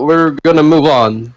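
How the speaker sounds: ordinary talk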